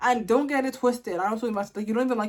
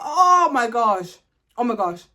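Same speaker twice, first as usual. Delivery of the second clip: laughing exasperation; 5 dB louder than usual. Real, not acted. Laughing at the yapping.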